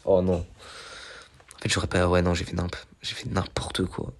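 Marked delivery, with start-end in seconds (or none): 2.3-4.1 whispered self-reproach, unvoiced and slow; slow unvoiced mutter of regret; self-reproach, quiet and slow. Real, not acted. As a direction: breathe it out slowly at yourself. Self-reproach after a mistake.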